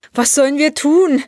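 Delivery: high-pitched, helpless plea; mild whimper. A narrator's reading. The commander asks Vitali for help, mildly whimpering. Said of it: "wimmerte der Kommandeur".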